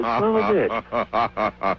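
drawn out slowly in amazement; stunned disbelief. Retold or imitated. Desert host greets surprise visitor, slow and stunned. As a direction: let it sink in, slow and stunned. Stunned at strangers actually arriving.

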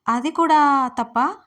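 loud, slow, rising protest; a loud, drawn-out indignant question; exasperated. Acted. Exasperated man defends holding hands.

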